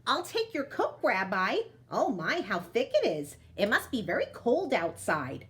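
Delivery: a lightly voiced old woman; Baba Brena talking. Baba Brena taking the bear's coat, lightly voiced old woman. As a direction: fuss kindly over the guest's coat. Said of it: "Baba Brena speaks to the bear".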